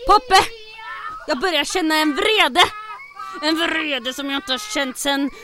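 building from loud to a high furious shout; mounting rage at the undamaged safe door, ending in a shout; rising fury. Acted. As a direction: let the anger swell until it bursts.

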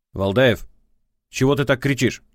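prosecutor's voice. A narrator's reading. Ex-wife on the phone scolding him, prosecutorial tone. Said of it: "послышался прокурорский голос".

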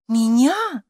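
a single startled word, tune rising then dropping; astonished cry. A narrator's reading. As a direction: caught off guard, blushing. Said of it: "вскричала Гарриет изумлённо". (изумлённый возглас)

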